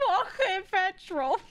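high, slow, exaggerated mimicry; Apple. Streamer retelling the clip that made them cry laughing, mocking impression. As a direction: stretch out both words in mock bafflement. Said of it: "I was like".

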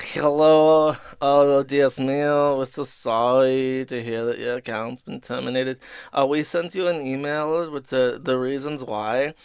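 lightly put-on Spanish accent, slow on Dios mío; mock Spanish accent. Mocking the support rep to his viewers in a Spanish accent. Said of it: "Juan Gonzalez or something".

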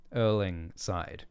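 ordinary delivery

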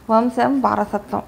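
slow, pressing hard on వంశం and వారసత్వం; emphatic stress. A narrator's reading. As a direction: lean on each word of వంశం వారసత్వం, slowly. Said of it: "ఒత్తి పలికాడు ఉద్వేగంగా".

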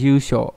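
yusho with a lengthened vowel; long vowel in yusho. Shown as a demonstration. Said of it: "có trường âm đúng không?". (trường âm kéo dài trong yusho)

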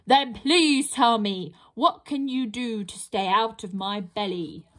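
a mild troll grumble; grumbling troll. Acted. Troll grumbles a demand at the trapped pixie. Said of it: "grumbles the troll".

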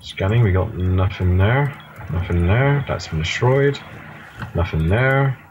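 scan report. Pretend. Reports drone scan in drawn-out voice.

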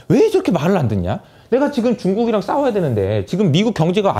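indignant retold tirade; mock angry attack. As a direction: rail against a stubborn underling, play-acted. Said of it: "엄청난 공격을 합니다".

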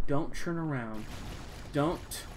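quiet mutter. Real, not acted. Repeats line quiet then loud.

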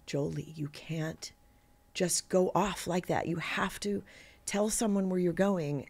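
lightly voiced mother, soft and halting; gentle mock scolding. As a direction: softly admonish a small child. Mother gently scolding child, retold.

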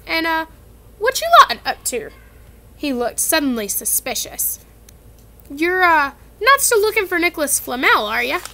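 high, loud suspicious giant; suspicious Hagrid. Acted. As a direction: squint and question them warily.

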